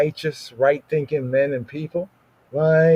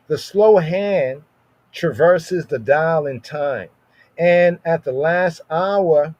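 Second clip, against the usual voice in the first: slow dramatic; 2 semitones higher, slower than usual. Acted. Dramatic ominous reading.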